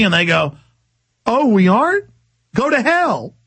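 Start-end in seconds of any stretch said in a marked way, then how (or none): 1.2-3.4 high, incredulous question into a scornful dismissal; imitating an insolent comeback; mock defiance. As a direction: throw it back as a cocky challenge. Acted defiant reply to governor.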